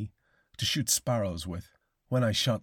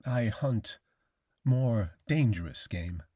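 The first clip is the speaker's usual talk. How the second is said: slow tone; slower than usual. Acted. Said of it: "in the same slow tone".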